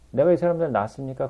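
fast, exasperated repeat; complaining retort. Retold or imitated. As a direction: fire it back as a grumbling complaint. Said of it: "불평하면서".

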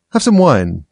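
a light, lifted, coaxing offer; encouraging tone. A narrator's reading. March Hare offers Alice wine, mildly encouraging. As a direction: urge her kindly to drink. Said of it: "in an encouraging tone".

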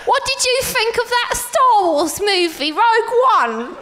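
Felicity Jones impression. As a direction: gush like a thrilled starlet. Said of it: "The country of Star Wars".

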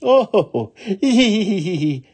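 high "oh", then giggles; tittering laugh. Acted. Little woman warned of the wicked Oni, high tittering. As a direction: laugh it off in high hee-hees. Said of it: "laughed the little woman".

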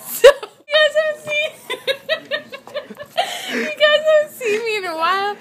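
high, squeaky laughing speech; helpless laughter. Real, not acted. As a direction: push the words out through giggles. Talking through a laughing fit.

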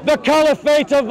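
slow, forceful declamation; open-air preacher pronouncing a verdict; street preaching. Real, not acted. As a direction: proclaim it to the crowd, each phrase weighted.

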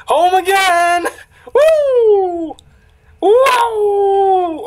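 high, loud cheering whoops; shrill-free joyful yells at full volume; excited whoops. Acted. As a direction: whoop it up like a party girl. Cheering game character.

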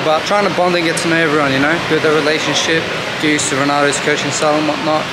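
slightly slurred speech around retainers; talking with retainers in. Real, not acted. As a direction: speak with a retainer in your mouth. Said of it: "If I speak a bit weirdly, it's 'cause I got my retainers in".

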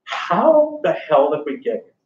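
slow, altered voice of a stunned soldier; dazed soldier. Retold or imitated. Teacher voicing soldiers on the battlefield, slow and dazed. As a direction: voice a dazed man on the battlefield, slowly.

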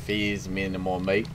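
put-on a light Irish-to-Scottish-to-Australian accent, drifting ending on mate; mock Irish sliding into Scottish then Australian; mixed Irish Scottish Australian accent. Gamer jokes to viewers in a drifting Irish, Scottish, Australian accent. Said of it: "a fucking mix of Irish to Scottish, maybe, and then Australian".

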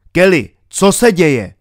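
pressing radio call; urgent calling. A narrator's reading. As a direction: call out insistently for an answer.

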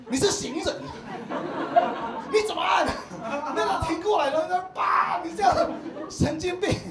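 high, loud laughing scoff; laughing disbelief. Real, not acted. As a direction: laugh at the absurd idea. Mocking a viewer's honking idea. (边笑边高声吐槽)

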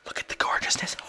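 hushed awed whisper. Acted. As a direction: breathe it in reverent awe. Admiring screenshot.

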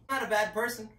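loud protest. Real, not acted. Repeated protest, first louder.

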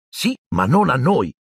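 high-pitched exasperated protest. A narrator's reading. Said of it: "disse Ron esasperato". (esasperato, voce più acuta)

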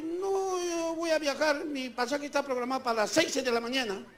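calm, quiet retelling of his own answer; calm retold reply. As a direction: say it softly, as if unbothered. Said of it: "Yo tranquilamente dije".

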